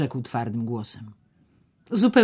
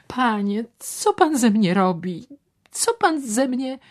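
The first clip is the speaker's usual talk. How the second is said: higher, louder alarmed voice; shocked protest; 11 semitones higher, 6 dB louder than usual. Acted. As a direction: push the money back, alarmed. Ewa protests the money.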